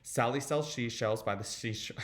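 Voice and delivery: quick tongue twister, tripping slightly. Shown as a demonstration. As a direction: rattle it off until the sounds slip.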